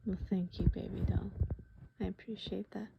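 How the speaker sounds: soft breathy whisper of thanks. Acted. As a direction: hush the thanks gently.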